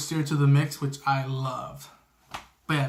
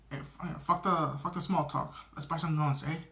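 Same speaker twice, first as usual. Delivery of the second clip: lightly imitated Irish accent; 6 dB quieter than usual. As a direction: toss it off in a mock Irish accent, softly. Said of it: "he has his Irish accent".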